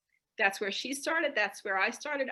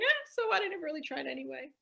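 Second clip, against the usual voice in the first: mock cool shrug; 5 semitones higher, faster than usual. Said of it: "he could be like".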